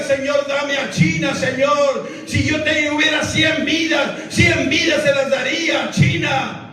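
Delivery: lightly voiced missionary crying out to God; pleading prayer. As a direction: beg God for China with growing force. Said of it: "clamaba y lloraba y le decía".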